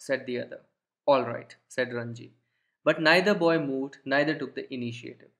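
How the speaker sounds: put-on slow read-aloud of the boys' dialogue; slow story reading. Teacher reading the warrior and Ranji's exchange, slow and deliberate. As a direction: read the fight dialogue slowly and plainly.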